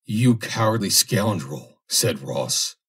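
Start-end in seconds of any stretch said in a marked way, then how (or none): 0.0-1.8 scorn and rage. Acted. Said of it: "eyes ablaze with scorn and rage".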